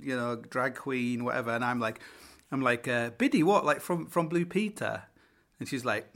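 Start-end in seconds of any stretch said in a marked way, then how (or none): 3.1-5.0 baffled. Retold or imitated. Baffled on hearing the name.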